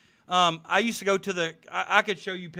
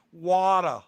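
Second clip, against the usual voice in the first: imitated Boston accent, R dropped from "what a"; 4 dB louder than usual. Admiring how Bostonians say it, Boston accent. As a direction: say "what a" as a Bostonian says water. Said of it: "the way they s".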